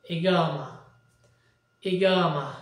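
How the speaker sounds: ইগামা with a hard g and long middle a, falling; regional Arabic pronunciation. Shown as a demonstration. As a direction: teach ইগামা slowly as i-GAA-ma. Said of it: "আঞ্চলিক যে একটা শব্দের কথা বলেছিলাম সেটা শিখে". (আঞ্চলিক আরবি উচ্চারণে ইগামা, গ দিয়ে)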